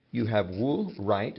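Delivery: YOU HAVE WOOL, then RIGHT rising; tag question. Shown as a demonstration. Teacher reminding students of English tag questions, rising RIGHT. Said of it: "how I'd say it in English".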